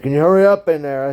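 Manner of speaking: loud and high; pushy knock-knock demand; impatient demand. Retold or imitated. Impatient guy outside stall.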